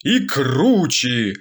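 slow, grand declamation turning to a curse; mock solemn curse. The speaker slowly declaims a curse at the enemies. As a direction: recite it like a solemn anthem, slowly.

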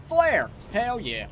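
high, loud delighted cry; excited find. Real, not acted. Player finds a flare, excited and loud. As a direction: call it out like a prize.

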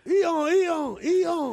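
high mock horse neigh; horse whinny. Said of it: "je vais vous faire le cheval".

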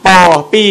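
ปอ ปี with a popped "p" in place of "f"; clearly sounded "p" starting ปอ and ปี; F becomes P. Shown as a demonstration. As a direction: show the Filipino substitution, "p" in ปอ ปี. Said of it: "ออกเป็นเสียง".

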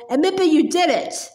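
roaring insult. Acted. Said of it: "roared the Trunchbull".

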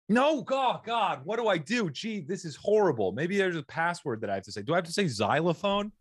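high hammed-up panic; mock panic. Mock panic, much higher.

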